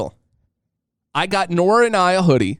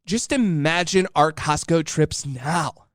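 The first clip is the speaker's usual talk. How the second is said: lightly voiced excited wife. Husband retells wife planning matching outfits, mild mimic. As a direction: mildly mimic her dreaming aloud. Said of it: "But she was like".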